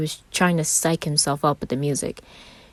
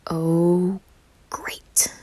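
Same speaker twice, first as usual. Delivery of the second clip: groan. A narrator's reading. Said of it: "Virgil groaned".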